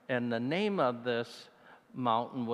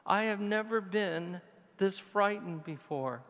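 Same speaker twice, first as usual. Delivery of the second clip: frightened prayer; 9 semitones higher than usual. Retold or imitated. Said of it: "and I said".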